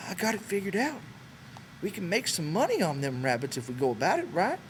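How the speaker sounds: put-on a shy old ranch hand easing into small talk; Candy's old man voice. A narrator's reading.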